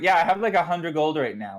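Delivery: put-on an Aussie kid bragging offhand; Australian kid. Kid telling the town about his gold in mock Australian. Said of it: "they had this Australian kid".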